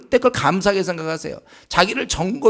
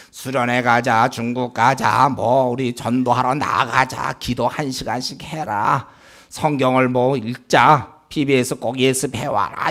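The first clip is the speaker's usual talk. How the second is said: slow, emphatic listing of demands; 6 semitones lower, slower than usual. Real, not acted. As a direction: draw out each demand one by one. Lists his own nagging, slowly. (하나씩 천천히 또박또박 나열)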